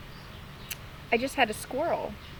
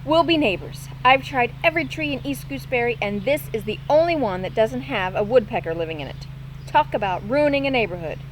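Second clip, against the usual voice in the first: great cheer. Acted. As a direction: chatter on happily. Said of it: "said with great cheer".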